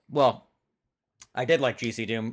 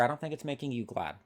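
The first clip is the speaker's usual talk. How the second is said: much softer, deadpan repeat of the line; quiet dry repeat; 8 dB quieter, faster than usual. Pretend. Cohost repeats his tease softly, deadpan. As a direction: drop it to a soft deadpan. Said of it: "I'm gonna go ahead and just infer".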